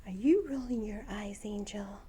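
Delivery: gasping whisper of amused disbelief; whispered mock shock. Real, not acted. Owner catching her bird rolling its eyes, whispered. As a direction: whisper it like you caught her.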